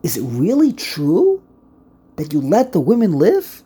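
asking in disbelief, rising at true; really true, rising; questioning tone. Shown as a demonstration. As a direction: pose it as an incredulous question. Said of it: "It could either be a question".

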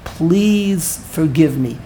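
slow, drawn-out plea; begging. Retold or imitated. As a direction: implore slowly, in an understated way. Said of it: "He begged Hashem".

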